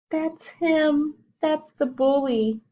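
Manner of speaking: frightened pointing out. Acted. Cub pointing out bully.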